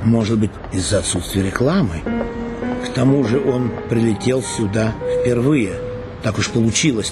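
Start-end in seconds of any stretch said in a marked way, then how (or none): none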